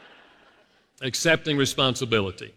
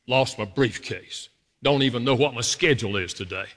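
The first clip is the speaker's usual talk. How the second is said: grumbling. Retold or imitated. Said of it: "all this stuff run through my mind".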